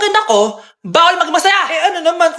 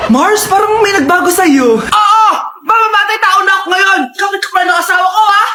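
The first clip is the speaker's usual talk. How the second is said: hammed-up yell at the neighbour; crying-shouting threat, overdone; mock furious shout; 3 semitones higher than usual.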